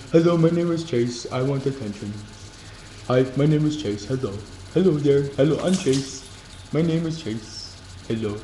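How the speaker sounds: lightly voiced goofy dog persona; Chase voice. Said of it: "I make this voice every time I think of Chase".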